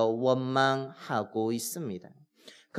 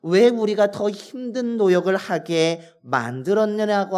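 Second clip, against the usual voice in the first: resentful complaint; 2 semitones higher than usual. Retold or imitated. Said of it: "하면서 모세를 원망하는 것입니다".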